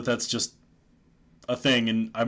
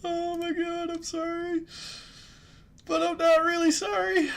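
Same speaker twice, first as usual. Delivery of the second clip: mock apology. Mock apology after crude joke.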